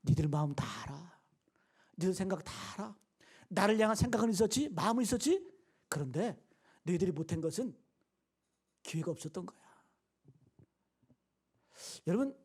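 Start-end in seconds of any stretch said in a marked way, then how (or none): 0.0-9.6 gently voiced reassurance, mostly lowered; warm understanding. Paul to the Philippians who could not visit, warm understanding. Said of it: "이 말이 따뜻하지 않아요?".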